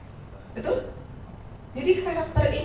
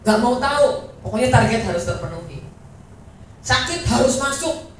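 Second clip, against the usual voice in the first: demanding boss, louder and insistent; 엄격한 상사; 5 dB louder than usual. Acted. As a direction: lay down the law like a boss. Acting a demanding boss at work.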